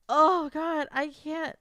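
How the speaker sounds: ordinary talk, nothing marked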